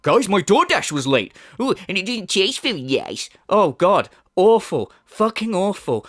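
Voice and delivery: a light whiny mock of the streamer; mocking moan. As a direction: moan it like a spoiled complainer, half-mocking. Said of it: "moan about his first world problems".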